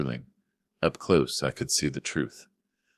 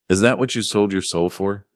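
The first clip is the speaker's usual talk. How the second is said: angry; 4 semitones higher, 5 dB louder than usual. Acted. Father accusing son.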